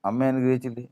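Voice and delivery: probing questions. Acted. Angel questions the weeping Jacob. (ചോദ്യം ചെയ്യുന്ന സ്വരം)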